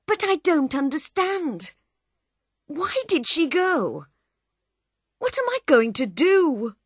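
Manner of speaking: high, pleading dismay; lost and miserable; unhappy. Acted. Bill asking the man in the hat, unhappy. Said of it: "Bill's face was very unhappy".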